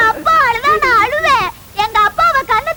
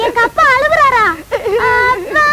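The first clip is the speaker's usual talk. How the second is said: அழுகை; slower than usual. Acted. Daughter hears father is crying.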